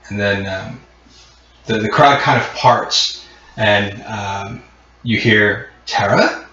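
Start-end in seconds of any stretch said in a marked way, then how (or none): 5.9-6.5 higher, rising question; brother's tentative questioning call. Acted. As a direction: call the name as an unsure question. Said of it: "it's the voice of your brother".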